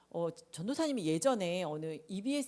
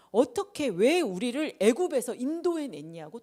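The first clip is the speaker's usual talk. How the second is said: loud, raised mock protest; acted indignant demand, pitched up; imitated angry complaint; 4 semitones higher, 6 dB louder than usual. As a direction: hurl the blame like an angry crowd. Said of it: "또 막 화를 내요".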